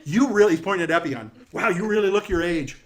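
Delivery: high, loud insult-comic voice; brash heckling jokester. Acted. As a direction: play a boisterous greeter roasting the guests. Jokester figure roasts guests.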